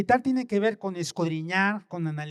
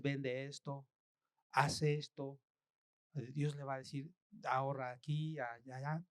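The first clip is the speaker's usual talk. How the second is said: God's voice; 6 semitones lower, 10 dB quieter than usual. Retold or imitated.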